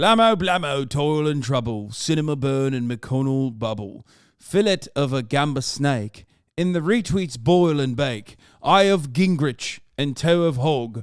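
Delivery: put-on British accent throughout. Reading a counter-hex thread aloud for maximum effect, British accent. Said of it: "best thread in British accent for maximum effect".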